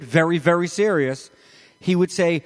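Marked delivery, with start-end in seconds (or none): 0.0-1.3 "Very, very" with both words stressed; doubled for emphasis. Shown as a demonstration. Preacher showing how doubling works, emphatic "Very, very". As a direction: lean on each "Very" before "serious". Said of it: "notice what I just did".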